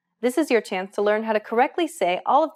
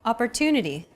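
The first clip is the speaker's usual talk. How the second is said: Opportunity with a longer "tu" syllable; stress on TU. Shown as a demonstration. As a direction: lean on the "tu" in Opportunity. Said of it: "Compare this once again with Arabic".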